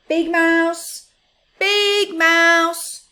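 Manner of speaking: high, loud excited call. Acted. Little Mouse calling Big Mouse to show his gift, loud call. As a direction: call him over with excitement. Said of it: "he called".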